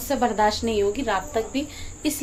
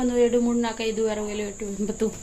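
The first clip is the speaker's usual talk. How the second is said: "एडू, मूरू" counted one by one and fading softer; counting on fingers; 3 semitones lower, 3 dB quieter than usual. Shown as a demonstration. Vlogger shows how she counts Kannada numbers like a child, fading. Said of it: "उंगलियों पे ऐसे count करता ना".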